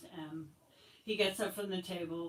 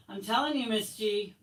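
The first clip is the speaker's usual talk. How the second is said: insistent whine; 4 semitones higher, 8 dB louder than usual. Acted. Boy insisting to teacher.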